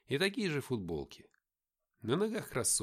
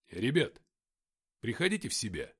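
mild exclamation to rouse the guys; exclaiming; 4 dB louder than usual. A narrator's reading. Shukhov urging dazed friends to come to their senses, exclaiming. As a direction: call out to snap them out of it. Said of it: "воскликнул Шухов".

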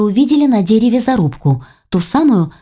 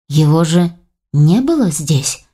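unsure; 2 semitones lower, slower than usual. Acted. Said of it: "неуверенно заметил Войтах".

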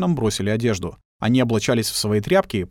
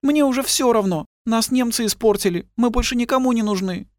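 high woman's voice near tears; tearful resignation; 11 semitones higher than usual. A narrator's reading. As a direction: give up, on the edge of crying. (высоким голосом, сквозь слёзы)

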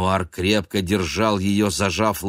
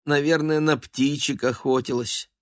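gossiping neighbour; 8 semitones higher than usual. A narrator's reading. The neighbour exclaiming over the fallen cat, high gossip. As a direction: cluck like a nosy neighbour.

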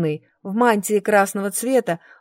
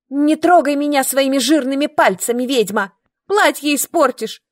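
higher, louder indignant yell; shouting back; 6 semitones higher, 3 dB louder than usual. A narrator's reading. Brunette yells at the witch not to touch her, shrill shout. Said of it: "закричала та в ответ".

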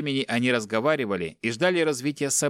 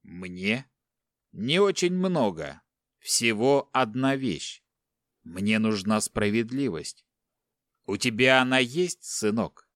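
cold captor; slower than usual. Acted. Captor telling the son he wants justice, slow and cold. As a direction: spell out each word coldly.

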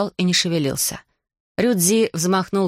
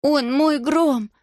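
very high, slow, stressed cry on мой; girl's cry; 9 semitones higher, much slower than usual. Acted. Girl crying out to defend her dragon, very high. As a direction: shout мой with all your heart. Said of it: "выкрикнула Алиана".

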